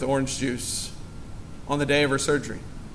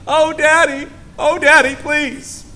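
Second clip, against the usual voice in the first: put-on high, pleading child's wail, much higher; crying child; 10 semitones higher, 5 dB louder, slower than usual. Pastor mimicking a hurt baby crying for Daddy, high and pleading. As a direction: whine for Daddy like a hurt toddler. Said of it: "they're not crying out saying".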